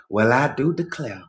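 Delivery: lightly imitated Southern belle accent; white Southern accent. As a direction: put on a hint of a genteel Southern accent. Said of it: "In imitation of Southern whites".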